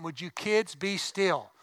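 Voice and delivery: put-on slow, deliberate scolding of kids; slow parental warning. Parent in church warning squirming kids, slow and stern. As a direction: warn the kids slowly, word by word.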